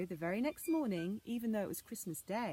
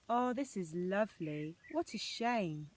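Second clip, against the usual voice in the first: exclaiming; 3 dB louder, slower than usual. Acted. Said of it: "exclaimed Anna".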